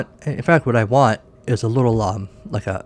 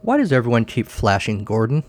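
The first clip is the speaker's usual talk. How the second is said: animated storytelling with lively pitch swings; comic story narration. A narrator's reading. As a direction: read a silly tale aloud to listeners.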